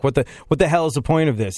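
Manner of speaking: Sam Kinison. Retold or imitated. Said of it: "He was like".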